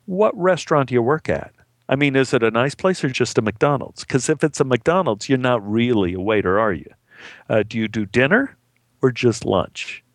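mildly patronizing small talk; feigned polite interest, lightly condescending; mock condescending. Someone quizzing a waiter about his job, mildly condescending.

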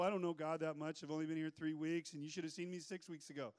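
mildly acted sheepish objection; doubting newcomer.

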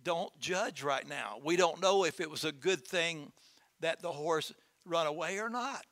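put-on calm old farmer. Calm farmer answers neighbors.

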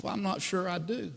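understated voice of a hopeless man; despondent reply. Acted. Jumper doubting he has reasons to live, subdued.

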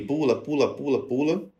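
lightly voiced intrusive thought urging him to jump; urging inner voice. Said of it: "fiquei com aquela voz assim".

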